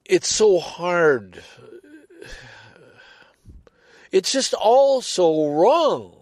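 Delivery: slow, loud, high anguished outburst; real anger breaking through. Real, not acted. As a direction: let the rage and grief pour out slowly. Venting anger at the killing.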